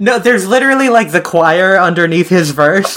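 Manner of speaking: high-pitched, talking through laughter; real laughter. Real, not acted. Co-host agreeing about the spooky choir, cracking up. Cracking up at Halloween remix remark.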